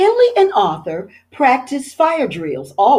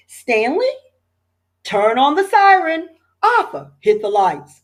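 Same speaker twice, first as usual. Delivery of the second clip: shouted orders; 6 semitones higher than usual. A narrator's reading. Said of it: "shouted Chief Abbott".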